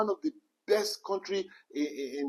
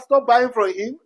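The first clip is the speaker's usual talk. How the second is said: emphatic shout; 3 semitones higher, 11 dB louder, slower than usual. Real, not acted. Climax of preaching rant.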